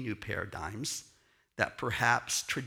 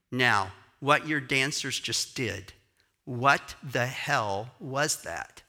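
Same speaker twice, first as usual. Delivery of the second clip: louder, slow and emphatic; pressing demand; 6 dB louder, slower than usual. Retold or imitated. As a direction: lean hard on every word. Dancer pressing the question.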